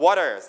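waters, t softened to a quick d; pronunciation variant. Shown as a demonstration. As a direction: say waters as "WAH-ders". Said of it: "ออกเสียงได้หลายแบบมาก".

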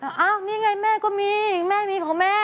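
mock mom voice; mother's voice. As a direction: play the mother, brushing it off. Voicing mother in story.

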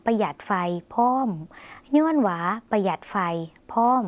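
Lao model sentence with พร้อม set apart by a pause; teacher's demonstration, พร้อม separated at the end; slow repeat-after-me. Shown as a demonstration. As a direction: say it for learners to copy, pausing before พร้อม. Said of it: "ถ้าอยากออกเสียงไปพร้อมกันก็ได้นะคะ".

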